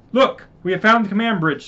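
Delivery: calling the team over to the bridge; excited call. Acted.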